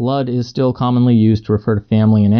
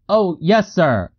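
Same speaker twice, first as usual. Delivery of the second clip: deferential answer; 8 semitones higher, slower than usual. A narrator's reading. Narrator answers the man, acted.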